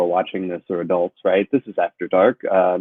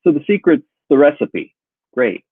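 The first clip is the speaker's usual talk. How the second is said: fake polite; 6 semitones higher than usual. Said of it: "be polite and go".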